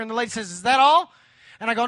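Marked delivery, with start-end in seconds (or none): 0.5-1.1 mock drive-thru voice, louder, rising at the end; hammed-up interruption; impatient order-taker. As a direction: cut in with a pushy question. Drive-thru lady interrupts, retold.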